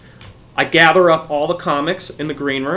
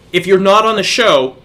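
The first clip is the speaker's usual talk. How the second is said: firm warning; 3 semitones higher, 5 dB louder than usual. Retold or imitated. Organizer ordering a kid out of the green room, firm warning. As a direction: raise the voice to clear them out. Retold confrontation, escalating second warning.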